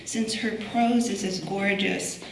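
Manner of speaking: projected reading of a prepared biography; formal introduction. Real, not acted. Curator introducing a poet to the audience, formal introduction. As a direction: present the honoured guest from a script. Reads speaker's biography from script.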